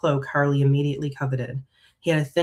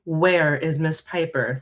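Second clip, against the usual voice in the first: deadly low tone; slower than usual. Acted. Customer to the shop worker about Miss Piper, nearly deadly. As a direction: ask it slowly, with restrained menace. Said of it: "asked in a deep, low, and nearly deadly tone".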